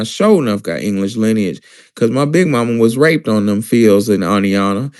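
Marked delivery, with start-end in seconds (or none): 0.0-1.6 grandmama voice. Retold or imitated. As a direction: talk like your old grandmama. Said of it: "I'm talking like my grandmama now".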